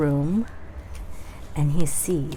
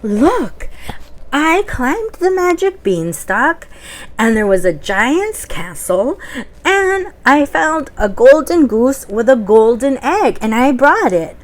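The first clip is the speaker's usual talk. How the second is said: put-on excited boy; 5 semitones higher, 4 dB louder than usual. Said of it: "And Jack said".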